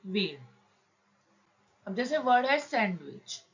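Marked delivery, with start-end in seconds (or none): 0.1-0.4 सी वीड said slowly as two separate parts; slow demo word. Shown as a demonstration. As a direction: break सी वीड apart slowly for students. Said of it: "ये पढ़ा जाएगा वीड".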